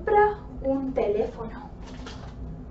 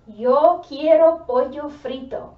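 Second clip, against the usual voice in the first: louder call; 2 semitones higher, 6 dB louder than usual. Shown as a demonstration.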